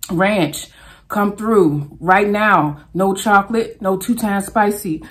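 preacher-style joking prayer; hammed-up church prayer for ranch; mock prayer. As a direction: pray over the pizza like church. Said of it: "And I'ma pray".

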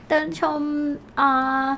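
ordinary talk, nothing marked

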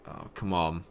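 ordinary delivery

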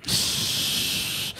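long, unvoiced "shh" hiss; soft sustained hush; long shush. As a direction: push out a drawn-out shushing noise. Imitated noise in story.

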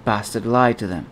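soft, low aside under breath; muttered to himself. Acted. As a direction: say it quietly to yourself. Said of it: "he said to himself".

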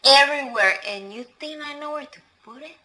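loud, indignant telling-off; angry outburst. Acted. Housekeeper tells off employer.

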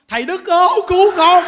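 loud, high mock plea for rescue; hammed-up shout for help; retold cry for help. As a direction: call out big and high, as if begging the master to save you. Woman in story calls for help.

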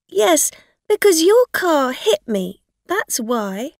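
high, loud, upset protest; tearful accusation. A narrator's reading. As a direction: wail the blame at the driver. Tearful injured woman accuses the driver.

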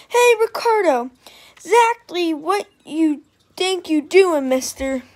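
loud, high, bossy call. A narrator's reading. Girl calling after a boy she chases, loud and bossy. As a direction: call him out, demanding.

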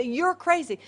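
mock incredulous retort; scoffing disbelief. Christians brush off the servant girl, disbelieving. Acts Christians' dismissal again.

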